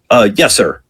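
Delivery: imitated grovelling subordinate; placating apology. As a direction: appease a yelling boss on the phone. Junior acting apology to yelling chief.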